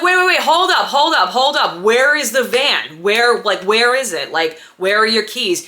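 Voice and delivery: frantic alarm. Retold or imitated. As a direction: stop him short, frantic. Panicking over the van.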